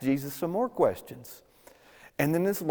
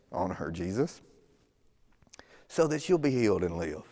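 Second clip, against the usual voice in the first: a mild, understated desperate father; earnest plea. Retold or imitated. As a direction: plead for a dying daughter, restrained. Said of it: "He begins to plead with him earnestly".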